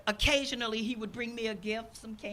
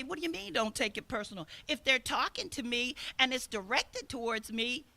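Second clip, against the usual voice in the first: incredulous objection. Retold or imitated. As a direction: play the offended person who takes it personal. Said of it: "so many people say".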